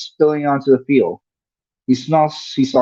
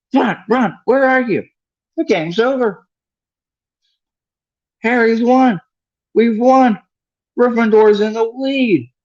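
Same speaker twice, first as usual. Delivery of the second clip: excited shriek; 11 semitones higher than usual. Acted. Hermione shrieking with joy to Ron in the stands. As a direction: squeal it out, the game is won. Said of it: "shrieked Hermione".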